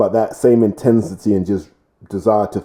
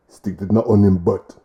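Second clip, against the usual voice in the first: put-on a rough stab at a Welsh accent; bad Welsh accent. Boxing pundit joking about reckless heads, terrible Welsh accent. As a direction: badly imitate a Welsh accent. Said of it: "That was a terrible accent".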